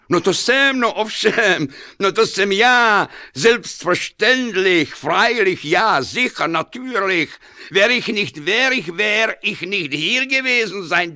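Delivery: high, loud, tumbling over himself in Czech and German; flustered excitement. Acted. Werich answering the fan, high and loud, flustered and gushing.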